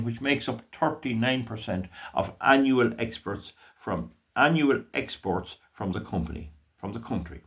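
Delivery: fumbled reading with restarts; stumbling read-out, trailing into a correction; tongue-tied. Real, not acted. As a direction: trip over the phrase and correct yourself. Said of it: "I'm getting a bit tongue-tied".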